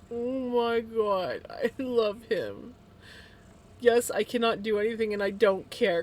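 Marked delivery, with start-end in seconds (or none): 0.1-2.7 slow, gushing pet talk; doting coo. Real, not acted. Owner cooing at her beloved pet, slow and doting. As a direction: melt over the pet, drawn out.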